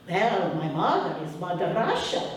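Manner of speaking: put-on boy in Ukrainian accent. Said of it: "I'll say it with my accent".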